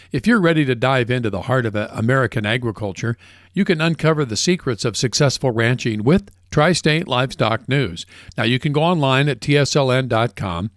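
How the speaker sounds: upbeat sponsor read for ranchers; polished commercial read; radio ad read. Acted. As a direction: sell it like a radio announcer.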